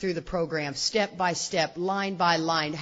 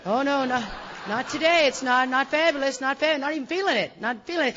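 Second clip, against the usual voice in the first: high, loud flurry of refusals; acted panic; 8 semitones higher, 5 dB louder than usual. Mother seeing her house plan fail, acted agitated protest. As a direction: protest high and loud, stumbling over repeats.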